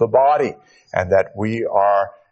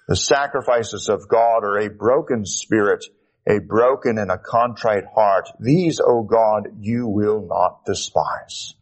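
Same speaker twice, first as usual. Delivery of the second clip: solemn psalm reading to the congregation; scripture reading. Acted. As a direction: read the psalm aloud with reverence.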